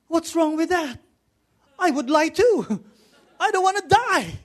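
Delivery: high, laughing mock protest; half-laughing, incredulous about lying to live; giggly mock outrage; laughing disbelief. Preacher voicing his own reaction.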